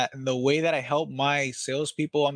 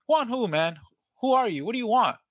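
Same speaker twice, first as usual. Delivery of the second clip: suspicious homeowner; 8 semitones higher than usual. Shown as a demonstration. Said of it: "If you answer the call".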